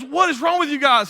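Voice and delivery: lightly voiced devil losing patience; exasperated devil.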